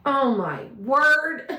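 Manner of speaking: slow, laughing "oh my word"; amused disbelief, drawn out slowly. Retold or imitated. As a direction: laugh through the words at yourself. Laughing at her own situation.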